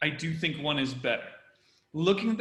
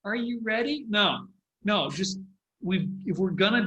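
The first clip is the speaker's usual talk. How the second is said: mock the awkward, tentative ask; awkward quote; 5 semitones higher than usual. Mimicking the speaker's awkward question, a limp rise. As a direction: imitate Biden's limp question with a rising end. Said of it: "It felt awkward".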